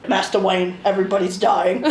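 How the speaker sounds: expressionless mock butler; Alfred. Alfred tells Batman of deaths, expressionless. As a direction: announce disaster with no expression at all. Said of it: "man never has any expression".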